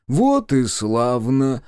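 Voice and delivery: majestic. A narrator's reading. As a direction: conclude it with lordly satisfaction. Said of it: "величественно заключил он". (величественно)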